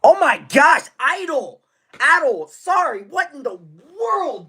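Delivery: high-pitched disbelief; stunned streamer reacting to a big donation; shocked. Real, not acted. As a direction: squeal it out in shock.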